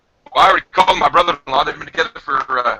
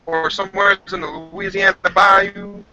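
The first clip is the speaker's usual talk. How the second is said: higher, put-on Louisiana bayou accent; southern accent; 4 semitones higher than usual. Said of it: "those are some heavy accents down south".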